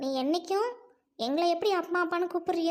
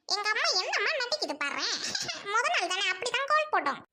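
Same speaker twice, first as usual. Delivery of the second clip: laughing; 2 semitones higher than usual. Real, not acted. Laughs at mother's acting.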